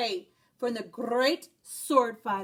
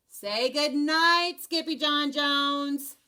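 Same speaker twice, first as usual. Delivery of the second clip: called; 3 dB louder, slower than usual. Acted. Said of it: "called his mama".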